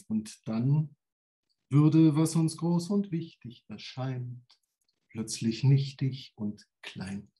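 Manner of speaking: spoken song lyrics, measured; recited lyrics. Acted. Poet reciting a famous lyric to the audience.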